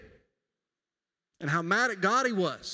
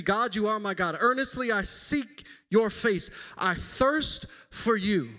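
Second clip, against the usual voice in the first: slow, earnest scripture reading; reverent, unhurried recitation; slow psalm reading; 3 semitones higher, slower than usual. Acted. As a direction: draw out each phrase of the psalm like a prayer. Reading Psalm sixty-three slowly.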